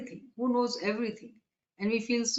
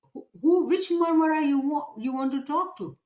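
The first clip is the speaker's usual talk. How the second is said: puzzled questioning; 4 semitones higher than usual. Acted. Fishes asking Nusayri which Marmara he wants, puzzled and high-pitched. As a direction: raise the voice to ask which one is meant.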